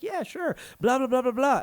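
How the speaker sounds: put-on high, eager little kid. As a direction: chirp it back like a keen kid. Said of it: "I'd be like".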